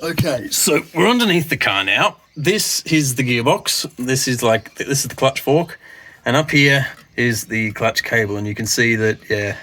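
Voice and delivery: talking around a phone in the mouth; phone held in teeth. Real, not acted. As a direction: speak with a phone clenched in teeth. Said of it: "I'm gonna have to hold the phone in my mouth".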